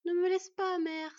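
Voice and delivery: loud, high desperate begging; sobbed plea. A narrator's reading. Son begging dying mother to stay, sobbing plea. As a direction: cry out pleadingly, on the edge of sobs. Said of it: "sanglota leur fils".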